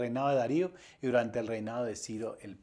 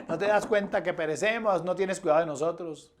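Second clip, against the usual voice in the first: higher-pitched alarmed plea, acted out; terrified disciples; 5 semitones higher than usual. Disciples pleading with the Lord in the storm, acted terror. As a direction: cry out in mock alarm for help. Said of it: "los discípulos aterrorizados".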